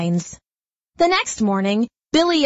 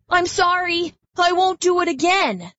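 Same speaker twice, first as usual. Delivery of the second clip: contrite bee; 9 semitones higher than usual. Acted. Billy apologises.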